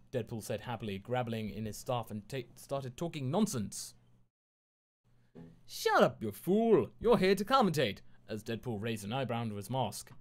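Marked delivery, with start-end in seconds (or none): 5.7-8.0 much higher, louder scolding shout; angry shout. A narrator's reading. The poodle voice snapping at Deadpool, much higher and louder. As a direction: bark at the fool to get to work.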